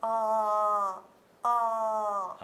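「あー」を顎を下げて伸ばす; 先生を真似て口を開く; 顎を落として「あー」. Shown as a demonstration. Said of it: "あーぐらいちょっと落としていただいてもいいですか". (顎を下げた「あー」)

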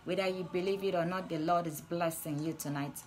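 tender reassurance. Acted. Preacher softly assuring viewers that the Lord loves them, tender. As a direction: ease down and reassure gently.

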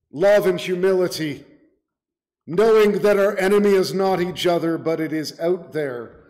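firm sermon exhortation, key words punched; emphatic preaching. Real, not acted. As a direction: urge the congregation on with conviction. Preacher exhorts congregation to unity.

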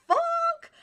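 loud, high yelp of a curse; sudden shouted curse; startled curse. Real, not acted. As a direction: blurt it out in shock. Startled outburst.

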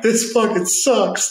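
high, slow, strained mock whine; half-joking high whine of misery; frustrated wail. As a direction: let the frustration crack upward. Crying alone in the scanner.

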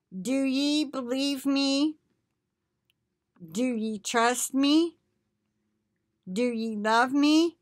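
measured, declaiming scripture voice; prophetic reading. Acted. Reading the prophecy to online brethren, solemn declaiming. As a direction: speak as the Lord addressing his flock.

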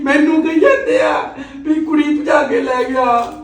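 comic outraged laugh-shout; laughing outrage. Acted. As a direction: protest the rumour through a laugh. Uncle outraged at the rumour.

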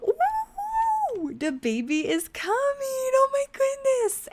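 high, loud squeals of delight; excited squeal. Real, not acted. Her sim suddenly goes into labor.

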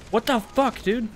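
shocked. Real, not acted. Shot again, stunned.

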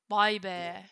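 awed whisper. Real, not acted. Awed after the song.

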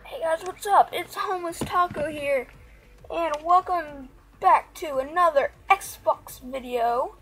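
talking with new braces; words slurred through braces. Real, not acted. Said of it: "I'm so sorry if I sound weird".

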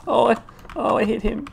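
high, loud triumphant shout; excited yell. Real, not acted. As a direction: cheer at landing a hit. Lands a shot on enemy.

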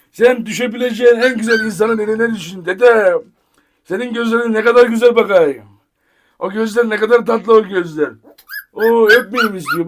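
real doting pet talk. Real, not acted. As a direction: charm a shy puppy with affection. Doting on shy puppy.

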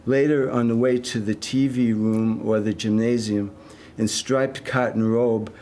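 deliberate, evenly weighted lines with pauses; poem reading. Acted. Poet reading a detox poem to an audience, measured recital. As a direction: read it as verse, lingering on listed images.

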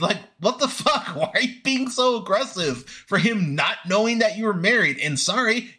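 high, exasperated rant at the screen; mock outrage. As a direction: tear into her like she can hear you. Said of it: "I'm sitting here going".

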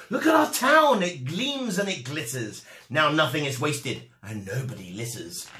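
excited burst on look at our town, then settling down; proud townsfolk. Acted. Townspeople showing Michael their gleaming town, excited then calm. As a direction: show off the clean town with pride.

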